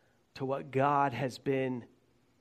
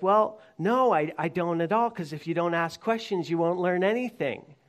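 lightly voiced dad, pitched up at the start; encouraging father; 3 semitones higher than usual. Father tells his son questions are fine, lightly acted encouragement. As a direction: lift the opening, then reassure as a father. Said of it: "the father thinks, and he goes".

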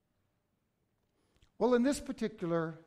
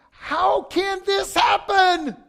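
much higher, louder, slow aching shout; anguished cry; 12 semitones higher, 13 dB louder, much slower than usual. Retold or imitated. Pastor voicing his ache over Second Samuel, loud anguished cry. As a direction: cry it out in disbelief. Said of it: "I say".

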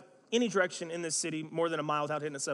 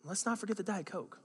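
with love; 3 semitones higher, 4 dB quieter than usual. Shown as a demonstration. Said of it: "just with love go".

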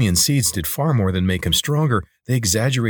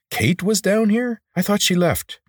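astonished; 14 semitones higher than usual. Acted. Corvin interrupts the lizard about Kate, astonished. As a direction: cut in with pitch soaring in surprise.

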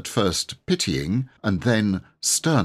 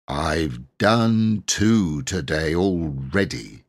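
grumbling; much slower than usual. Acted. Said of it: "it grumbled".

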